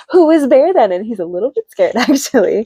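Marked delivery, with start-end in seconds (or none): 0.1-0.9 surprised. Retold or imitated. Franklin realizes Bear flew away.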